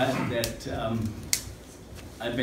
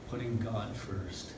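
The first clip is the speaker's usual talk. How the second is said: choking up; 2 semitones lower, 8 dB quieter, slower than usual. Real, not acted. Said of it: "sorry, I'm choking up a bit".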